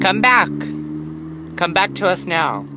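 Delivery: loud call after someone walking off. Real, not acted. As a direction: shout it after her. Calling mom to come back.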